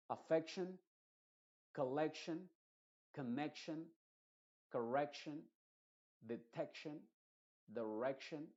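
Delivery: each word with its "ec" stressed, spaced out. Shown as a demonstration. Teacher reading example words and stressing the e. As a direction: read the list, hitting the e each time. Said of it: "va a ser la que lleva la fuerza".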